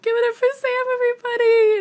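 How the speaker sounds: high, loud call to the crowd; imitated stage announcer. Singer introduces her to the audience, imitated high shout-out. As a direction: hype up an audience, imitating a performer.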